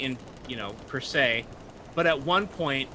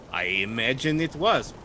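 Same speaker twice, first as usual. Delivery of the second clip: lightly voiced morbid curiosity; a hint of ghoulish eagerness; too-eager sailor. Sailor asking about severed limbs, a touch too eager. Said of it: "a little too eager".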